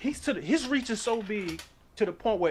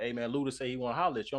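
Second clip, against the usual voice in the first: lower, quicker bodyguard; low fast bodyguard voice; 8 semitones lower, 4 dB quieter, faster than usual. Retold or imitated. Bodyguard quoted.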